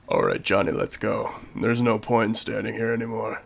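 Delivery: a mock deep-voiced old woman; deep granny voice. Granny tells Johnny to leave, mock deep voice. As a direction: drop way down, a low granny. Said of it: "give her a really deep voice".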